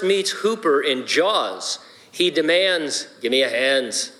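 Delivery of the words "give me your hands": put-on Irish accent. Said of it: "It's my best Irish accent".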